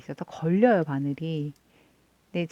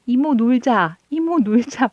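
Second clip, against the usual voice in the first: put-on higher, louder pleading child's call; whiny niece; 5 semitones higher, 6 dB louder than usual. Niece begging her aunt to play, high whiny call. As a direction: beg to play like a little niece. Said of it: "막 이래요".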